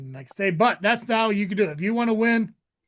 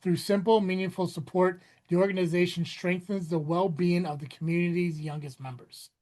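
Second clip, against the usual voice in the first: audiobook reading. Shown as a demonstration. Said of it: "I'm like a book on tape".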